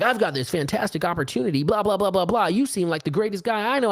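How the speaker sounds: hammed-up recruiter enthusiasm, rattling on; mock sales gushing. New recruit pitches an opportunity to an old acquaintance, mock gushing. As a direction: imitate an overeager MLM pitch.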